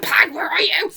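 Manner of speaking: high, loud retold call; imitated search call. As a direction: call out as if searching, mimicking him. Acting out character calling for Pag.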